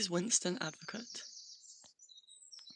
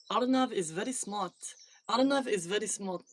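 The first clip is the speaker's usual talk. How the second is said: put-on Indian accent. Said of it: "Can you read this in an Indian accent?".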